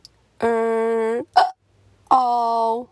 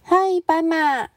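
calling out; 6 semitones higher than usual. Acted. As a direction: shout a happy hello. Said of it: "猪小姐大叫".

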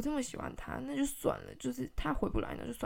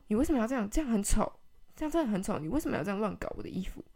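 mom's fast angry scolding; 5 dB louder, faster than usual. Retold or imitated. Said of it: "我妈讲话超级无敌快".

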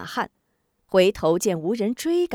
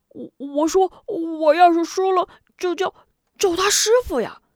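high, pleased-with-himself explanation; proud of his own cleverness; smug; 10 semitones higher, 5 dB louder than usual. A narrator's reading. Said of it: "似有些洋洋得意". (洋洋得意，声音高)

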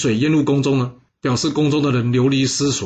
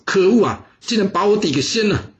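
seethe at being exposed; angry inner grumble; 7 semitones higher than usual. Acted. Bo Pi's angry inner thought. (心里暗骂)

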